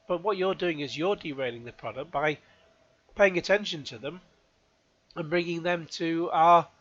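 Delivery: talking around an ice cube; ice in mouth. Real, not acted. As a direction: speak through a mouthful of ice. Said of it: "I've just put a, an ice cube in my mouth".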